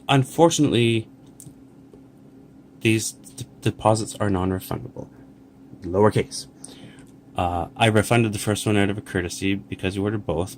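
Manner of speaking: polite, courteous customer-service voice; professional tone. Shown as a demonstration. Showing viewers how a seller should politely reply. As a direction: rewrite it kindly, as a professional would. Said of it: "in a professional way, you would say".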